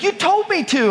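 lightly voiced innocent child; innocent kid. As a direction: play the kid who did as told. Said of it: "He's like".

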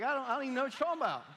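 fast, loud country-bumpkin denial; country accent. Acted. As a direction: blurt it high in a hammed-up country accent. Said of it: "kinda country bumpkins".

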